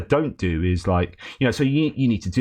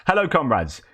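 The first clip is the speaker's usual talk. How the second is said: higher, raised call to the troops; rallying shout; 5 semitones higher than usual. Retold or imitated. Volunteer fighter shouting greetings to his comrades, rallying call. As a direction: call out to the whole unit like a rally leader. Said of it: "And he's shouting to".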